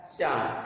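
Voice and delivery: चांद with a nasalised आ, no separate n; nasalised vowel. Shown as a demonstration. Teacher showing students the correct चांद, nasalised vowel without full n. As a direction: say चांद through mouth and nose together. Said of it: "क्या होता है?".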